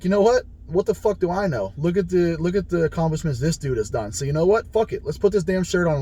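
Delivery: psyched-up inner voice. Retold or imitated. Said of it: "I'm like".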